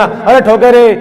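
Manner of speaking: staged cries of a beaten wife; mock wailing. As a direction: wail like being beaten, hammed up. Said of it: "ऐसा चिल्लाना".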